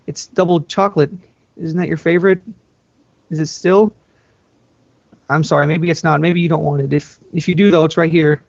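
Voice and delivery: nervous cheer through the door; hopeful younger sister. Acted. Sister talking to a locked door, hopeful and nervous. Anna voiced at Elsa's door.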